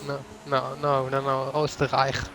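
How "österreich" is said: "Oostenrijk" said the native Austrian way; native pronunciation. Shown as a demonstration. Correcting co-commentator on the country's name, "Oostenrijk" pronounced natively. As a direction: demonstrate "Oostenrijk" as Österreich, ending like "rike". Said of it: "That's how you say it in".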